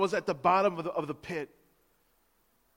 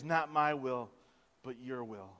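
much softer, lower surrender; quiet surrender prayer; 7 semitones lower, 7 dB quieter than usual. Acted. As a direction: let it sink into a hush. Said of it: "three times Jesus prays".

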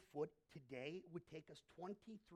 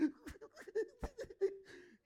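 1 mock wail; 9 dB louder than usual. Mocking Peter's weeping.

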